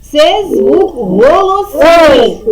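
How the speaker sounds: slow, with голосний stressed; slow, stressed answer. Shown as a demonstration. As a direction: spell out голосний slowly for kids. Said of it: "Які ми звуки з вами вчимо". (повільно, з наголосом на «голосний»)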